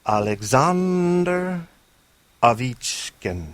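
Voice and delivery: Alexander drawn out slow and high, Ovechkin as "Ovitchkin"; Russian pronunciation. Shown as a demonstration. Host repeats the name for fans, slow Russian way. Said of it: "gonna do it one more time for you".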